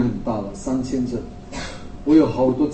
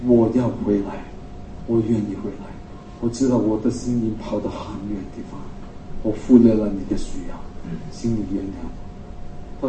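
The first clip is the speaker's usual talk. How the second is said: tearful plea; 3 semitones lower, 4 dB quieter than usual. Retold or imitated.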